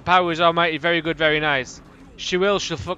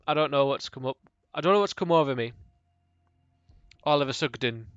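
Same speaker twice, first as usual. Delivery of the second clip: mock posh drawl; 6 semitones lower, 4 dB quieter, faster than usual. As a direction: lower and softer, slow put-on speaking voice. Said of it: "Imagine if I spoke like that".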